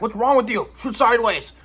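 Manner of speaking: lightly voiced dad giving orders; imitating dad. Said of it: "My dad's like".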